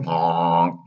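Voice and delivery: a single donkey honk; a boy turning donkey honks at a stranger. Acted. Pinocchio honks at dock man.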